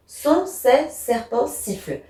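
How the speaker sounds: slow "Sont ces serpents sifflent", each S set apart; sibilants picked out. Shown as a demonstration. Teacher shows pupils the repeated consonant, sibilants picked out slowly. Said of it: "rien qu'en prononçant cette phrase".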